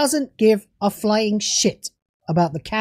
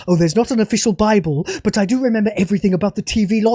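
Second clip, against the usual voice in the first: lower, quick, lightly voiced mocking impression; a lightly sneering parody of a dismissive writer; mock showrunner, lightly voiced and rushed; 4 semitones lower, much faster than usual.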